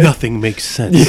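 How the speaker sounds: slow movie trailer narrator; dramatic trailer announcer read; trailer voiceover. Acted. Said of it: "do that voice for one of the trailers".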